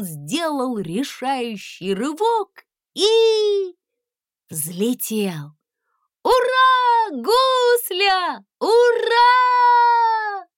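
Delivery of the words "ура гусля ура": very high, loud cheering; joyful shout. A narrator's reading. Princess shouting with joy as the dragon takes off. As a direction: cheer with all your joy. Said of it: "закричала принцесса".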